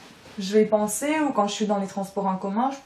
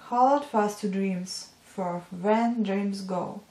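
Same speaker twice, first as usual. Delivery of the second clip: slow, careful poem recital; poem reading; slower than usual. Real, not acted. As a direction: read the verse out slowly, pausing between lines. Reads a poem aloud.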